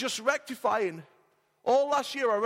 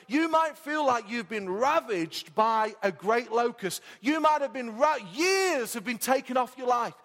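building preacher appeal; 4 semitones higher than usual. Acted.

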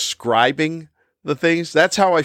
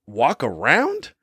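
slow rising disbelief; incredulous echo; 3 semitones higher, slower than usual. Real, not acted. Echoing the sister's tip with slow disbelief. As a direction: repeat it as if it's absurd. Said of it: "pretty sure that's the last thing".

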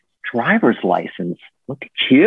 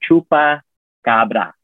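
slow, drawn-out syllables; over enunciating; much slower than usual. Shown as a demonstration. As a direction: stretch every syllable out. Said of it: "Let me say it slowly".

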